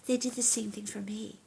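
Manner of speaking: soft unvoiced whisper, moved. Real, not acted. Actor recalls co-stars' kindness to the interviewer in a moved whisper. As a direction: breathe it, almost to yourself.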